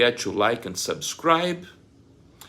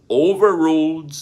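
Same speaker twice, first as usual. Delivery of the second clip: much louder and higher, a furious ruling; angry judge; 7 semitones higher, 8 dB louder than usual. Acted. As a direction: slam the objection down. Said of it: "The judge responds again".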